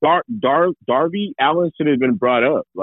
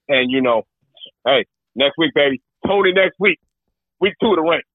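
lightly hyped wrestler trash talk; wrestling promo. Pretend. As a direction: cut a champion's promo. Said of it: "James, cut the promo as the brand new champion".

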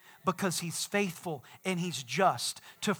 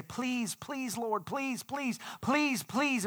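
soft, higher mock pleading; begging prayer; 5 semitones higher, 3 dB quieter, much slower than usual. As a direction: plead on repeat, imitating a desperate prayer. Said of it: "we pray for forgiveness like this".

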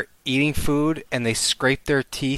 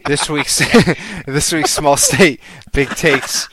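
hyped announcer; 3 semitones higher, 6 dB louder, slower than usual. Acted. Hyped segment announcement, laughing.

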